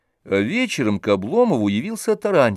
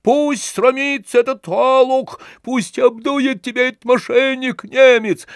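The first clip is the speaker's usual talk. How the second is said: very high, loud slow screaming abuse; raging howl; 12 semitones higher, 4 dB louder than usual. A narrator's reading. Tarantyev screams abuse at Oblomov and the German, very high and wild. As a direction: scream insults without restraint.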